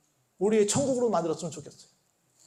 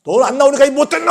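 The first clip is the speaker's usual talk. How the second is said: loud, fast, high telling-off; mock angry scolding; 5 semitones higher, 10 dB louder, faster than usual. Preacher acts God angry at an absentee, mock scolding. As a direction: scold like an enraged father, hammed up. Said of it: "막 화내시는 얼굴이 아니라".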